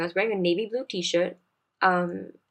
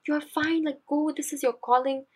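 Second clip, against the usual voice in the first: higher-pitched voice of encouraging friends; imitated reassurance; 8 semitones higher than usual. Best friends on a conference call urging her to go, imitated reassurance. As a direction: urge her on in a lifted voice, retold.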